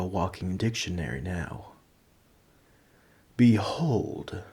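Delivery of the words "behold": dramatic whisper. Acted. Dramatic announcement before showing off.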